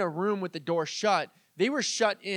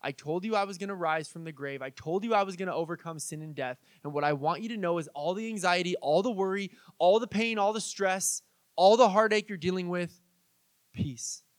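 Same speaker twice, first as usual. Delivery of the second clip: gentle, hushed comfort; calming. Retold or imitated. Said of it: "He just calms everybody down".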